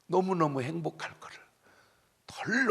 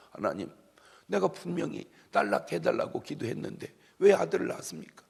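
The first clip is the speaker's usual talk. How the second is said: mild protest to God, rising higher; 따지는 투; 4 semitones higher than usual. Retold or imitated. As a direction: playfully argue with God, pitch lifted. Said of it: "하나님께 따졌어요". (하나님께 살짝 높은 소리로 따지듯)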